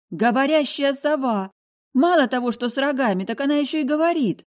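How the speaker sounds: high, loud panicked scream; screaming like mad. Acted. Heroine screaming at the talking owl. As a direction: shriek it out in disbelief, fast at the end. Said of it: "заорала, как ненормальная".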